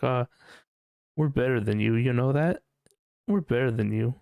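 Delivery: mocking smug vegans. Mocking preachy religious people: smug superiority. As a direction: sneer it out as a preachy believer. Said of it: "put it in your face and be like".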